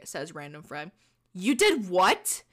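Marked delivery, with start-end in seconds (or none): 1.3-2.4 slow, drawn-out "you did what?"; disbelief. Acted. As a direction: stretch it out in mock outrage. Shocked reaction to date setup.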